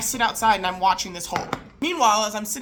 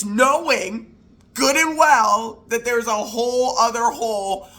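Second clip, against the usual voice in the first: indignant, emphatic build with deliberate breaks; incredulous scolding. Retold or imitated. Wife confronting husband over the second hole, incredulous. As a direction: lay out each grievance in disbelief.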